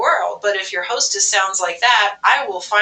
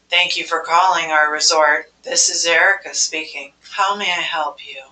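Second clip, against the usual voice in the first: low, lifeless phone greeting; bored coma voice; 4 semitones lower than usual. Shown as a demonstration. Hotel receptionist answering a call, bored and lifeless. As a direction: sound half asleep on the phone. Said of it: "I pretty much sound like I'm about to go into a coma".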